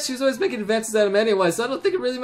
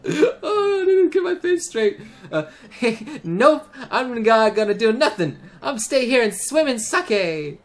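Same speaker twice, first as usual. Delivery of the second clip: put-on high drunk girl voice; 4 semitones higher than usual. Character voiced drunk, laughing.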